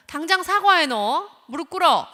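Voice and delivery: forcing command. Retold or imitated. Parent forcing the child to kneel, loud commands. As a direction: demand an apology right now. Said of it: "하면서 강요를 합니다".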